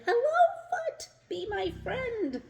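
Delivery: high, loud excited call; shouted. A narrator's reading. Rock calling out to a passing foot, high excited shout. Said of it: "He shouted".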